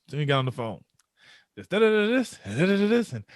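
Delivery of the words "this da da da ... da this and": mock lament. Mimics his own lament on phone.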